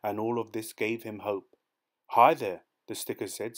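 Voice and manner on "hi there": smiling greeting. A narrator's reading.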